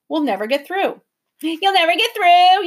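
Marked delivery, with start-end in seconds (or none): 1.4-2.6 higher, louder jeering repeat; mocking echo. A narrator's reading. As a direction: throw the words back mockingly. Creature mocks professor.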